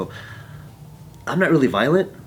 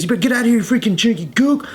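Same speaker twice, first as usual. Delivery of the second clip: high-pitched imitation of an aggressor; retold angry threat; 11 semitones higher, 3 dB louder, faster than usual. Aggressor getting in the bystander's face, angry. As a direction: act out a hostile warning.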